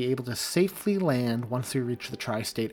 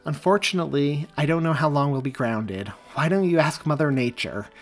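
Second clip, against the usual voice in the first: sarcastic retort, higher and louder; snarky; 3 semitones higher, 7 dB louder than usual. A narrator's reading. Stewardess snapping sarcastically at a pushy passenger, snarky. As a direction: brush her off with sarcasm. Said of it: "the snarky response".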